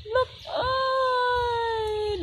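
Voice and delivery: startled shout. Real, not acted. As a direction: yelp as the bird moves. Shout at peacock.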